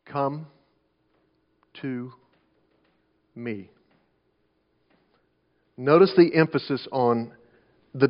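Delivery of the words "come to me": each word alone, long pauses, softening to the end. Shown as a demonstration. Preacher isolating three simple words for the congregation, word by word. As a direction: set COME, TO and ME apart, dropping quieter on each. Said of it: "Three simple words".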